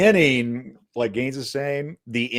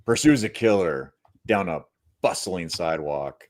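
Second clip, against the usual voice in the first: sultry narrator; 8 semitones lower than usual. Pretend. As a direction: purr the movie blurb. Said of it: "Read the synopsis in a sexy voice".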